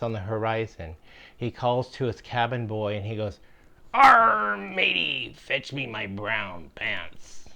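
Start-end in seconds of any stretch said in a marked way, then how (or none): 3.9-7.5 a hammy pirate captain losing his nerve at the sight of the armada; panicked pirate. Acted. Pirate captain, facing ten ships, begs his cabin boy in a hammy, panicked pirate voice.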